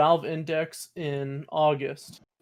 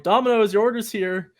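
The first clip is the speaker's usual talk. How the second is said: delivery guy voice; 6 semitones higher than usual. Retold or imitated. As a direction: announce the order at the door. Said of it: "I'm like".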